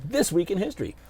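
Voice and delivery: breathy segment-title whisper; dramatic whisper. Pretend. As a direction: whisper it like a trailer.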